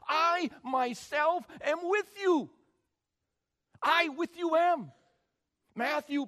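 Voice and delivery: high, loud, fervent preaching; full-force preaching. Real, not acted. Preacher thundering the promise to the church. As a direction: preach it with all your might.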